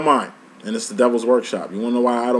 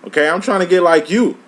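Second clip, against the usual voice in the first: frustrated plea; 5 semitones higher than usual. Retold or imitated. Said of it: "you're just getting frustrated".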